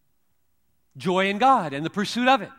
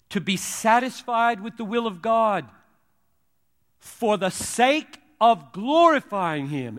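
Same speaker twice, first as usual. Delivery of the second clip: slow, deliberate reading with weighty pauses; very slowly. Shown as a demonstration. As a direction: spell it out phrase by phrase, emphatically. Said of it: "say that very slowly".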